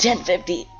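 high shouted radio call; panicked shout. Real, not acted. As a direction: yell the code, panicking.

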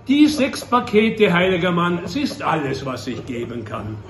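forester's wife. Acted. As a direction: let the line fade away as it falls.

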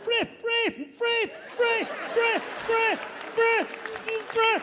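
very high stuck "free" repeated; high stammered "free, free"; stuttering freeze. Acted. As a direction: cop unable to get freeze out. Stuttering cop can't say freeze.

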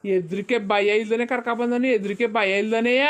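very slow, drawn-out indignation; slow indignant. Acted. Elder complaining about the fearless boy, very slowly. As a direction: drag each word in disbelief.

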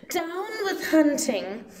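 high hooting call; high singsong hoot. A narrator's reading. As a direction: hoot it out high like a happy bird. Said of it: "he hooted".

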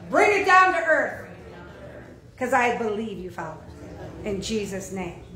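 fervent spoken prayer, rising in force. Acted. Pastor leading the church in prayer, fervent. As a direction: lead them in a heartfelt prayer.

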